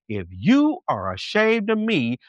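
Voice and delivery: measured, weighty voice of the Lord; God. Retold or imitated. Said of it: "the word of God says".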